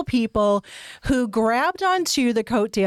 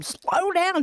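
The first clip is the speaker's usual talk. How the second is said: teacher voice; 9 semitones higher than usual. Retold or imitated. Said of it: "Brenda's telling them".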